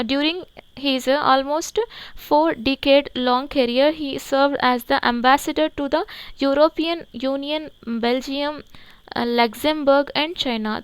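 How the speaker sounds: each English word read out very slowly and evenly; slow dictation reading. Shown as a demonstration. Teacher reads the headline to the class, very slow dictation pace. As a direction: read it slowly so students can write it down.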